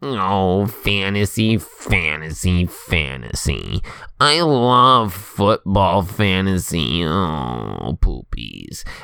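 very deep voice with long stretched "oh". Telling how Jake kept on about fantasy football the whole time, in a Jake voice. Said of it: "Sorry, Jake voice".

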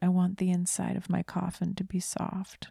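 earnest, calm, matter-of-fact, very serious tone. Retelling what their child said while they were driving: very quiet voice. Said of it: "he just very quietly goes".

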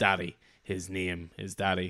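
put-on grumpy teenager voice. Retelling a comic scene where the son corrects his mother: Franklin's grumpy teenager voice. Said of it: "in his little grumpy teenager way".

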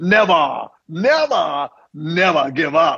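very slow, deliberate, every word dragged out. Retelling how a mentor quoted a famous line: Winston Churchill impersonation. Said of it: "in his best Winston Churchill impersonation".

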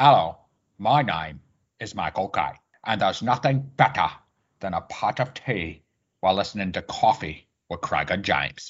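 put-on London Cockney accent. Asked by a co-host to introduce himself, doing a Michael Caine Cockney impression. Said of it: "That Cockney accent".

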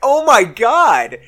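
loud, high-pitched yelled outburst. Retelling yelling at the gym while watching the game: retelling own yell. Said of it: "they knew what I was yelling about".

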